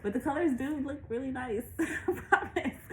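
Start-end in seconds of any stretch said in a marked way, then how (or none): 1.8-2.8 laughing through it, high and slow; a real laugh breaking the promise. Real, not acted. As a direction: giggle out a reassurance. Laughing at own bad camera shot.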